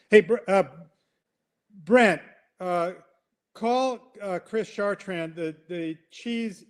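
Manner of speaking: high, fretful voice phoning for help; a flustered man demanding someone fix it; complaining human. Pretend. Human calling staff, high and fretful.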